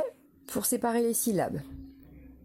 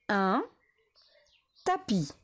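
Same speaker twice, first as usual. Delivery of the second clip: whisper. Shown as a demonstration.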